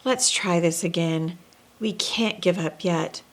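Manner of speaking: regretful Santa. Acted. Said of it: "shook his head with regret".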